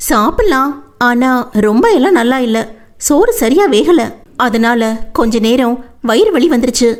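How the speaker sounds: a hint of a girl's complaint; Vennila, mildly complaining.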